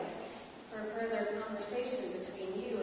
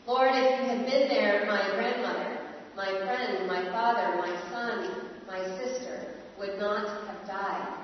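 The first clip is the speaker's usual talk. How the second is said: anguished plea; 3 dB louder than usual. Acted. Plea on behalf of many.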